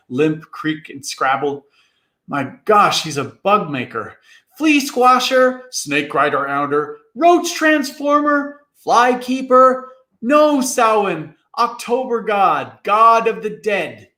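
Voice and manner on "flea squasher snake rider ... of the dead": awed roll call. A narrator's reading. Awed listing of Samhain's names.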